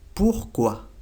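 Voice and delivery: pourquoi with a French R, ending in kwa. Shown as a demonstration. Teacher repeats pourquoi for learners. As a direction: model pourquoi slowly. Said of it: "Se dice pourquoi".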